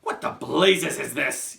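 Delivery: slow, high, roaring disbelief; outraged yell. Acted. Trunchbull seeing her name on the board, yelling. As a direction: bellow it, stretching the words. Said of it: "yelled the Trunchbull".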